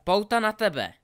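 high, loud battle cry; roared spell. A narrator's reading. Draco hurls a spell at Harry, roaring. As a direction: roar the spell at your opponent. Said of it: "zařval Draco".

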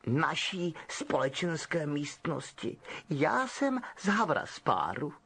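slow, prim correction; haughty girl setting them straight; girl correcting the lost boys primly. Acted. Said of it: "řekla dívka upjatě".

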